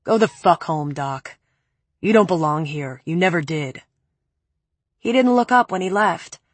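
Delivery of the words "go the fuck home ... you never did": a hint of a low, cold man; cool, lower man's voice; lightly lower male voice. Preppy's cold dismissal.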